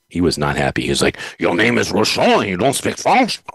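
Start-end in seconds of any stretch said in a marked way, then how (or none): 1.4-3.4 mildly imitating an irate officer; a touch of indignant police officer. The Quebec officer scolding him at the traffic stop, mildly irate. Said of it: "And he was irate".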